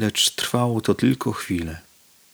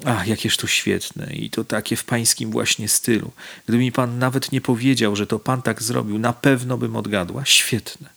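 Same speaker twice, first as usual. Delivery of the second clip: delighted exclamation; 2 semitones higher than usual. Acted. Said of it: "Pani Nina zawołała".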